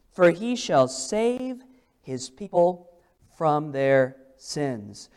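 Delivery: slow, measured King James reading; solemn scripture reading. Acted. Preacher to congregation, solemn slow reading of the angel. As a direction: read the angel's words with solemn weight.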